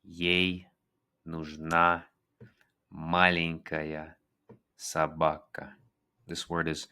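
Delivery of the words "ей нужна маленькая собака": slow, clear Russian sentence; teacher demo; slow model. Shown as a demonstration. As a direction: stretch "маленькая" slowly. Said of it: "repeats the model".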